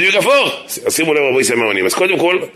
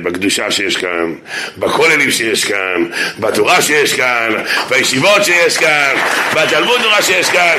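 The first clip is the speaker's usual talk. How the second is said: 1 building enthusiasm. Retold or imitated. Listing with rising enthusiasm.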